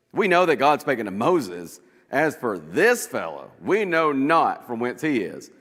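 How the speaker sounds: looking down on him, loudly; mild loud scorn. Acted. Pharisees dismissing Jesus with loud scorn. Leaders sneer at the man.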